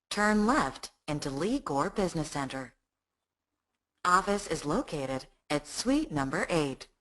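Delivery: slow, even satnav directions; GPS voice. Acted. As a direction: read each turn like an automated navigation system. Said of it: "you want to hear the G P S voice".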